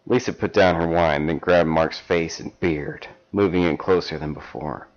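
measured storybook reading; story narration. Acted. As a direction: read it like a steamy paperback. Reads erotic fan fiction aloud.

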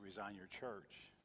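quiet, drawn-out divine command; a whispered-soft voice of God, unhurried; slow, very hushed voice of God. Retold or imitated. Voice of God retold.

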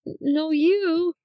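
high, giggly flustered sign-off; stammer, laugh and hurry off the call embarrassed; flustered laughing goodbye. Acted. Flustered in-character goodbye after compliment.

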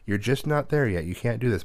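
a hint of a know-it-all brother shutting him down; bossy big brother. Ezra brushing off little Trent, mildly bossy kid voice. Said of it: "Ezra's like".

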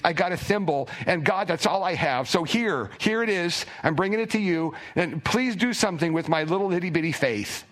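a father crying out for his son; desperate cry. Retold or imitated. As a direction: beg for help with a desperate parent's cry. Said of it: "the man cries out, and it is a cry".

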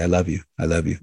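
rattled off without feeling; careless, automatic "I love you"; mindless. Shown as a demonstration. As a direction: toss it off like a habit, meaning nothing. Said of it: "people use it mindlessly".

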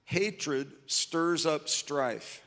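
very slow, weighted on "stirs"; slow scripture reading. Shown as a demonstration. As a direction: lay each word down slowly, leaning on "stirs". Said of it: "Proverbs ten twelve says".

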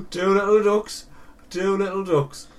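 gasping, delighted bingo call; excited gasp. Acted.

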